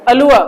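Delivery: अलुआ ending in an "uh" vowel, no r; silent r. Shown as a demonstration. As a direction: model अलुआ with the r left silent. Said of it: "र silent रहता है लेकिन अ की sound देता है".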